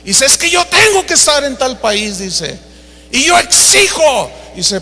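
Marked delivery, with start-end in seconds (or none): 0.2-2.2 insistent demand. Retold or imitated. Preacher insisting to agent. 3.1-4.3 higher, haughty voice; haughty demand. Retold or imitated. Preacher demanding of the airline agent, higher and haughty.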